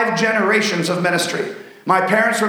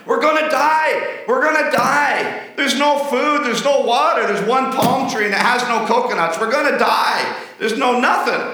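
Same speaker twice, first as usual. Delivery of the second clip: mock panic, pitched up high; panicked yelling; 5 semitones higher than usual. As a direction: play the panicking castaway. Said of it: "started screaming and yelling".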